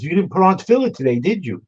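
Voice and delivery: cross-examine like a Southern judge; imitated Southern judge. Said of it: "spoke like he was twelve Southerners from Alabama".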